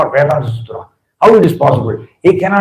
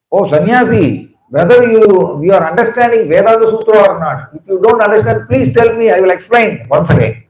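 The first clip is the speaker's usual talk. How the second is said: higher-pitched, mildly impatient questioning; 5 semitones higher than usual. Retold or imitated. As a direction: voice a scholar losing patience. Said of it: "impatience, Bhattacharya spoke".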